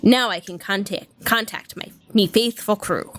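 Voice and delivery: light pirate voice reading. Retold or imitated. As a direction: read it like a jolly pirate captain. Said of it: "reading something in a pirate voice".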